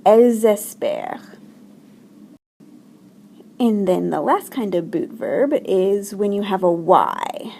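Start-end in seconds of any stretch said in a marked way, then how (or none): 0.0-1.4 "espèrent" with a silent ENT; louder model of "espèrent", ENT unpronounced; silent ending. Shown as a demonstration. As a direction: end "espèrent" on the r sound. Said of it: "do we ever pronounce the E N T".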